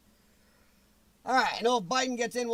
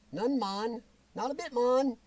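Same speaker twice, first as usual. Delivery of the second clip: a lightly put-on Jamaican accent, half joking; bad Jamaican accent; 2 semitones higher than usual. To Mister Miles, mocking her roots in a weak Jamaican accent. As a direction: toss off "man" in a mock Jamaican accent. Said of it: "Yes, that's bad accent".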